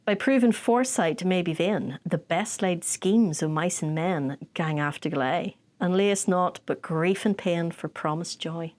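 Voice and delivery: slow Scots recital of Burns; Scottish poem recital. Shown as a demonstration. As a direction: read it out in broad Scots. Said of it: "That's in Scottish".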